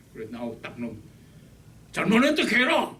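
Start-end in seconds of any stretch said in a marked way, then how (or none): 1.9-2.9 stern order. Retold or imitated. Father ordering apology.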